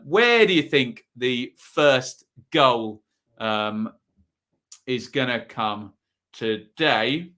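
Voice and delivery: slow, lightly put-on Sheffield drawl in the style of an indie singer; a half-hearted Sheffield rock-singer accent, stretched out. Stream host asking viewers about the first goal, in a slow mock Sheffield accent. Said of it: "I can't do the Alex Turner accent".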